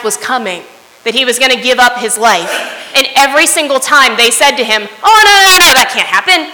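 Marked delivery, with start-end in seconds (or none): 5.0-6.5 sudden high, loud retold protest; alarmed protest. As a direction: blurt it out as a shocked disciple. Disciples protest Jesus' death.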